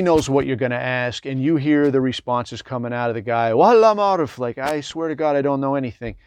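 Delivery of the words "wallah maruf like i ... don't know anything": pleading farmer. Retold or imitated. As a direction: plead like a farmer swearing he knows nothing. Farmer protesting under questioning.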